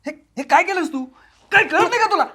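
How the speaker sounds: high, loud, fast snapping; losing his patience with her; frustrated outburst. Acted. Husband snaps at wife who tore the photos: high angry outburst.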